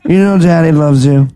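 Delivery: put-on lightly slurred drunk dad, same line repeated; slurred dad voice again. Dad slurring fondly to his kid, lightly slurred. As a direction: slur it like a fond, sloppy father. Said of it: "He didn't always talk like that".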